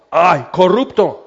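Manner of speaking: drawn-out indignant ay; mock outrage. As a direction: sneer it out like a scandalized neighbor. Scolding a corrupt politician.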